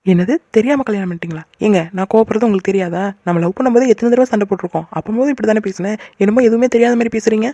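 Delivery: indignant wife's protest; mildly angry. Acted. Wife confronting husband over his marriage remark, mildly angry. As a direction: challenge him with a touch of anger. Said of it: "எதுக்குடி இப்ப இவ்வளவு கோவப்படுற".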